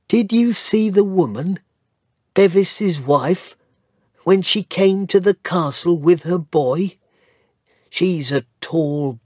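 high, scornful gossip voice; gossiping village woman. Acted. Village woman comparing the wife with Missus Errol, scornful. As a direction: sneer at the stranger, fond of Errol.

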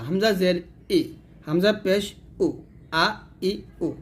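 short unpressed ই, উ and আ; light hamza. Shown as a demonstration. Teacher drilling hamza vowels, light and short. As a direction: clip the vowels আ, ই, উ lightly with no throat squeeze. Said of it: "এটা হলো হালকা".

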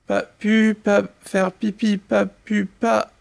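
halting, small stammer. Acted. Little canary excuses himself to his siblings, halting stammer. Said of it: "bredouille le pauvre petit".

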